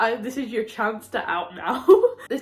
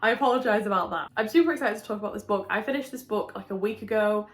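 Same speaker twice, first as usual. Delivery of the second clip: congested, under the weather; sick voice. Real, not acted. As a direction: talk through a cold, like through a window. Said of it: "it definitely sounds like I'm talking through a window at you".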